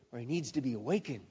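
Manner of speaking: mocking whisper-like aside; mocking hush. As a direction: drop it to a sly hush. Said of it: "Elijah began mocking them".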